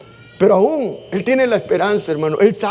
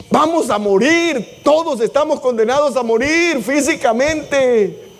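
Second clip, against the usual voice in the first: solemn preaching; 3 semitones higher, slower than usual. Acted.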